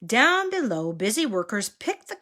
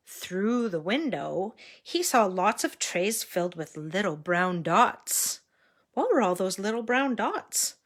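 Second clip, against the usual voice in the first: put-on storybook voice for little kids; reading to a toddler. A narrator's reading. Reading Curious George aloud.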